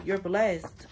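"blessed" said with extra weight; emphasis on blessed. Real, not acted. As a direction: land firmly on "blessed". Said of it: "Emphasis on the blessed".

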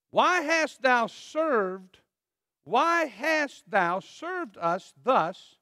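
slow, drawn-out aggrieved questions; milk each accusing why; indignant scripture reading. Acted. Preacher reading the Ephraimites' complaint to Gideon, slow and aggrieved.

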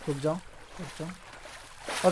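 slow hushed whisper while hiding. Real, not acted. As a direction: whisper so the monster can't hear. Hiding quietly from the monster. (धीमी फुसफुसाहट)

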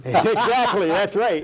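laughing through the words. Real, not acted. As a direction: chuckle while agreeing. Laughing agreement about the um jar.

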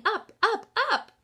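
building up, up, up; rising up. A narrator's reading. Rising with the divers.

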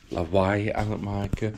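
normal talking voice

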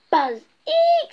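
a very high, loud squeak of fright. Acted. Bear scared by the giant bee, squeaking high. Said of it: "squeaked the bear".

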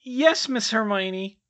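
high, slow, abashed elf voice; sheepish elf. Acted. Elf answering his mistress after being told off, sheepish. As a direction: shrink back like a scolded little elf. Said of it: "he said sheepishly".

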